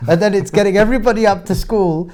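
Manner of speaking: playing up the morning chaos at high volume; frantic parent. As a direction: reel off the morning chores, overwhelmed. Acting out his chaotic morning.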